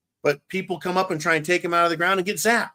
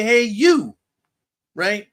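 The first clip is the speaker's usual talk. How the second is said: sarcastic imitation of bureaucrats, pitched up; mock official; 4 semitones higher than usual. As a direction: parody a smug official admitting mistakes. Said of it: "They'll say".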